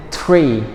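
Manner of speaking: tree starting on a crisp t plus r. Shown as a demonstration. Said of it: "not three".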